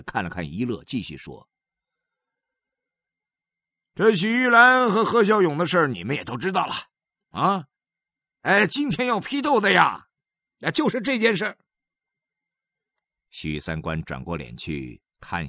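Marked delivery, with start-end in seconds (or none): 3.9-11.6 higher, louder stern husband voice; pitched-up husband holding a family denunciation; Xu Sanguan addressing family. Acted. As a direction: lecture the family like a meeting chair.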